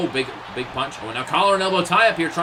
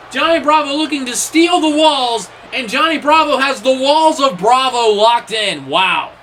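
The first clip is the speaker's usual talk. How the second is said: much higher and louder, hyped up; excited call; 8 semitones higher, 7 dB louder than usual. Real, not acted. Commentator calling a stolen submission hold, excited. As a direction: sell the reversal at full pitch. Dramatic reversal called out.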